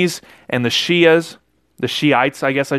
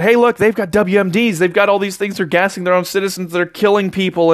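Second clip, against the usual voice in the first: retold alarm; 4 semitones higher than usual. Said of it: "Netanyahu went in front of Congress and he said".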